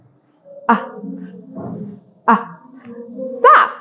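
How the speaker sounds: s, ah run together into sat; teacher blending s, ah into sat; sounding out to blend. Shown as a demonstration. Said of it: "make it faster".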